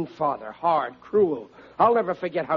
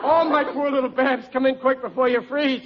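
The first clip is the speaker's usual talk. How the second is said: high, worried fussing; flustered, pitying father; anxious fatherly concern; 10 semitones higher, 4 dB louder than usual. Acted. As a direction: melt into urgent concern for your child. Father relents, fusses over his daughter.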